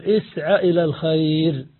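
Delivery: اسعى with short final a on the ع, running into إلى; connected form. Shown as a demonstration. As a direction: link اسعى onward, voicing fatha on the ع. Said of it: "وصلنا بحركتها في المضارع". (وصل اسعى بما بعدها بفتح العين)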